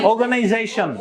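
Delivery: অর্গানাইজেশন as oh-ga-nai-ZEI-shon, no r, with a z; correct English pronunciation. Shown as a demonstration. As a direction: say অর্গানাইজেশন with a buzzing z and silent r. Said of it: "অর্গানাইজেশন বলেন কেন".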